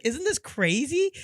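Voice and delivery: high, slow imitation of her; woman's voice. A woman showing a kangaroo video to a man, lightly mimicked girlish excitement. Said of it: "She's like".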